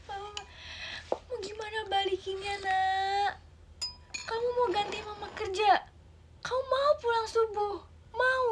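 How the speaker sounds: high crying plea; tearful mother. Acted. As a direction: beg the child, close to tears. (ibu memohon sambil menangis)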